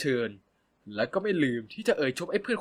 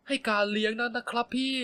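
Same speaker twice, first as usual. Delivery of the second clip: high, coaxing plea; pleading wheedle; 8 semitones higher than usual. Acted. Pleading with Phop to let him pay, higher and coaxing. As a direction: beg sweetly like a child to a parent. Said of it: "พูดด้วยเสียงที่ชอบใช้อ้อน".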